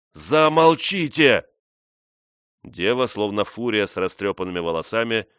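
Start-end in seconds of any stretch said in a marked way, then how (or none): 0.1-1.5 slow, loud, drawn-out command; exclaiming. A narrator's reading. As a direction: bark it slowly and loud. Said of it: "он воскликнул".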